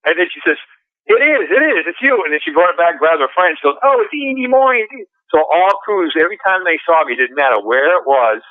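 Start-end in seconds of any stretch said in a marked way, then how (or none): 1.1-2.2 much higher, thrilled fan recognizing a celebrity; retelling a fan who spots him on the cruise, high and thrilled; excited fan squeal. Retold or imitated. 3.8-4.9 much higher, slow gushing fan voice; retelling a fan who tells her friend she spotted him, high and gushing; starstruck fan. Retold or imitated.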